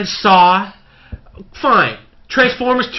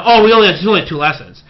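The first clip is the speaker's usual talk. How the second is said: mocking the movie line; 4 dB louder, faster than usual. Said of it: "But they say it".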